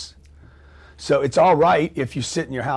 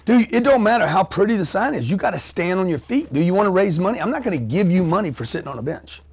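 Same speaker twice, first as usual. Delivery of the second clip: high, fast, laughing tough-love lecture; mock street-corner pep talk; retold tough love; 5 semitones higher than usual. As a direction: lecture a homeless man to stand up. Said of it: "I said".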